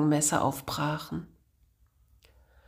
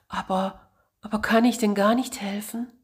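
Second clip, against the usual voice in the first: quick, higher, stammering plea; anxious stammer; 4 semitones higher, faster than usual. Acted. Frightened boy asking the monk if he can help, stammering. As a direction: stumble over the words in fear. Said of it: "stotterte Giuseppe".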